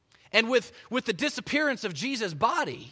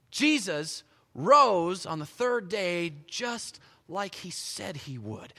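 ordinary talk

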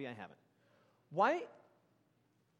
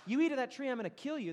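punishing God; 6 semitones higher, 4 dB louder than usual. Shown as a demonstration. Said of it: "That's punishment".

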